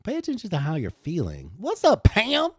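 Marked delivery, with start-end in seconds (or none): 1.6-2.5 excited shout-out, higher and louder. Real, not acted. Welcoming a viewer named Pam into the chat, excited. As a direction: greet her like she just walked in.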